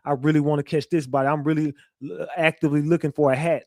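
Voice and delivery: a fast, casual, lightly voiced gangster brag; mock gangster talk. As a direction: rattle it off like a show-off thug, half mocking. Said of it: "People don't talk like that".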